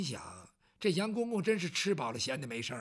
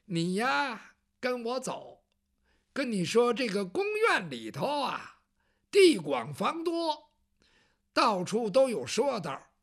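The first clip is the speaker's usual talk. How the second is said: lightly voiced fussy palace eunuch; a hint of a lecturing old servant; chatty eunuch; slower than usual. Eunuch Yang Zhong warns Bao Zheng, lightly voiced fussy lecture.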